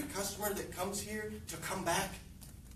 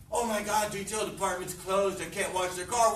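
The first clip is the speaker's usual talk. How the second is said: tag-worthy excuse. Acted. Mimics staff excuse, then rebuts it.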